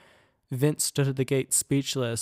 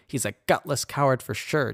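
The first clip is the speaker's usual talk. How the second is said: huffy. Acted. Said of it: "Tiffany huffed".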